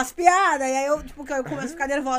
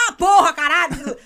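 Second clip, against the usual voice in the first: mock swearing outburst; 5 dB louder than usual. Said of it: "E eu tô, volta e meia".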